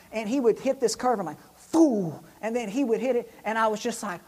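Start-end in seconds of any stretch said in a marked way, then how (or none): 1.5-2.1 loud "foo" of a launch; imitated truck whoosh. Passenger imitates the truck hitting the curve, loud whoosh. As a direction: burst out a quick whoosh.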